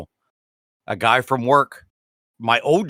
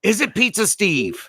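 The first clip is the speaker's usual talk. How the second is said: surprised shout; 7 semitones higher than usual. Real, not acted. Surprised at the name.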